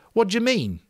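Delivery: Roger voice. A narrator's reading.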